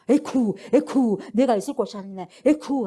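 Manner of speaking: slow, mock-panicked devil cry; devil fleeing. Preacher mimics the devil scurrying away in mock panic. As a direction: play the devil yelping as he runs off.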